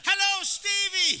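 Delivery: high, loud, slow sing-song hello through a door; through a mail slot. Retold or imitated. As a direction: call it through the letterbox. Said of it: "he shouted through the letterbox".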